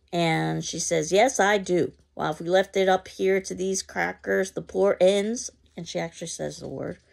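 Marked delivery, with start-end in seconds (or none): 1.1-5.5 louder, higher brag; loud boasting. Acted. Mrs. Johnson insisting to Mama, loud boast. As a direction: push the claim hard. Boasting neighbor keeps bragging.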